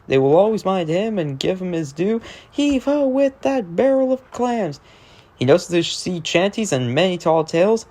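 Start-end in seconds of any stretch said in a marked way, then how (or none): 2.5-4.8 put-on high hearty old sea dog calling out; sing-song shanty refrain, hearty; salty sailor voice. Narrator voicing Salty the dock diesel, hearty old sailor.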